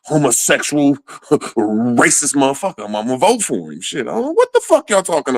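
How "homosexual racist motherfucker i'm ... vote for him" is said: mock convinced voter. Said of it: "I'll be like".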